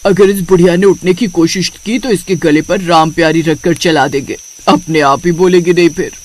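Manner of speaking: low-pitched, threatening character voice; धमकाता पात्र. Acted. (धमकी भरी नीची आवाज़)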